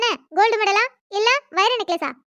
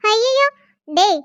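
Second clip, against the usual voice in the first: mock dismay; 3 semitones higher, much slower than usual.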